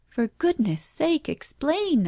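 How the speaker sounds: high, cross demand; crossly. A narrator's reading. Husband crossly demanding his wife explain. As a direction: snap impatiently for an answer. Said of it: "I said crossly".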